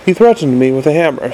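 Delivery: quick, accusing little imp; fast, indignant gadget voice. Acted. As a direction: snap back at him, wounded. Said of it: "said the imp accusingly".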